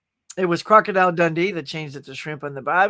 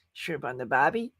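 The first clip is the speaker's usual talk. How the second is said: lightly put-on Australian "Bobby" for barbie; softer, lower try at an Aussie accent; 4 semitones lower, 5 dB quieter than usual. Shown as a demonstration. Streamer showing how barbie was meant, light Australian accent. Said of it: "like it was the accent".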